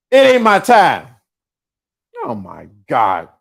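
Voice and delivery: normal talking voice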